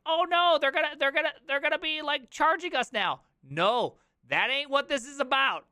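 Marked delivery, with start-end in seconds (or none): 0.1-3.2 mock worry. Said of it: "Their big worries is like".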